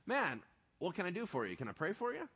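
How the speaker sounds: natural, out loud. Shown as a demonstration. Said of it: "That's actually how it sounds out loud".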